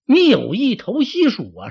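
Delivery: high, loud, furious challenge; angry accusation. Acted. Xu Huang accuses Wang Ping of going over to Shu, angry. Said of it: "徐晃这气".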